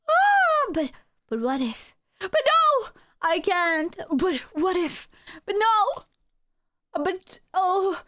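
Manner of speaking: high, squeaky, torn back and forth; squeaky inner argument. Pretend. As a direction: argue with yourself in a squeak.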